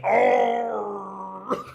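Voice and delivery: loud high mock yelp of shock; startled cry. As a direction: yelp as if the rock just hit you. Friend hit by the rock.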